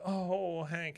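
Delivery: mildly weepy, retold; tearful. Peggy greeting Hank, tearful.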